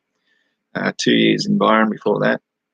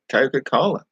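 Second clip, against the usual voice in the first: put-on Coca-Cola in his own Australian accent, a little higher; 4 semitones higher than usual. Ordering a drink in America, Aussie accent. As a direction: says Coca-Cola the Aussie way, rising at the end. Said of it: "they speak so slow and exaggerated".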